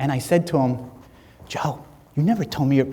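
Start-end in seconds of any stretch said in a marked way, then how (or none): 1.5-2.9 acted whispering. Retelling asking a friend about his deaf parents: imitating own whisper. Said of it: "I'm whispering, right?".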